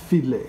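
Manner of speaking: File said with the I long and loud; File, lean hard on the I; stress on the I. Shown as a demonstration. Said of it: "You see the accent is on the I".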